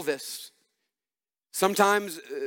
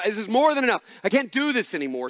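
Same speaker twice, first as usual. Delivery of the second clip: desperate breaking point; 4 semitones higher, faster than usual. Retold or imitated. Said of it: "they've said".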